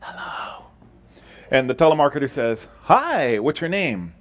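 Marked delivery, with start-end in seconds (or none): 0.0-0.7 put-on hushed little kid whisper; a child whispering into the phone; small child whispering. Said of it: "small voice whispers". 2.8-4.1 lightly voiced chirpy salesman, higher; a hint of a cheerful cold caller; telemarketer.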